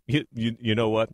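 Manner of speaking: lightly voiced radio host, measured delivery; a hint of a veteran DJ, deliberately paced; Rick Dees impression. Co-host retelling a DJ's frying pan advice, lightly imitated host voice. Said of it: "I'll try and do it in my Rick voice".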